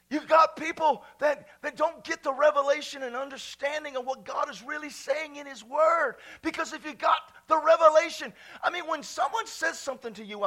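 driving, urgent sermon delivery; emphatic preaching. Real, not acted. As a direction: press the point on the congregation. Preaches at full force.

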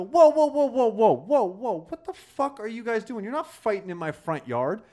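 high, loud whoas settling into a scolding; calling out to stop fight. Retold or imitated. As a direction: shout them apart, then scold. Breaking up fight in yard.

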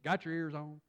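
light country twang on a CB call. Shown as a demonstration. Preacher showing old CB lingo, light country twang. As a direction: toss it out with a hint of country twang. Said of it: "say it in that country twang".

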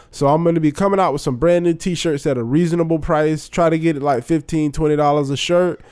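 stuffy, blocked-nose nasal voice. Real, not acted. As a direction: talk through a congested nose. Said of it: "I apologize about my nasal situation".

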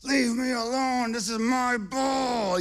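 put-on high-pitched little boy's furious yell; imitated angry yelling. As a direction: yell it like an outraged child, stretching the end. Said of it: "he's yelling at him".

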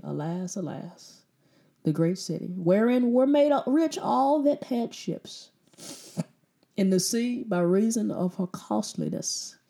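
hushed Bible reading; scripture reading. Acted. Reads scripture aloud.

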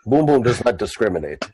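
blunt orc in third person; lumbering, matter-of-fact orc; simple orc. Acted. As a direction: state it squarely in a dropped orc voice.

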